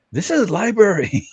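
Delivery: high, loud, drawn-out mock scream in a thick accent; imitated scream. Asian guy shouting down a rally in a college library, imitated scream. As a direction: imitate an outraged man screaming, slow and very high. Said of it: "just screams".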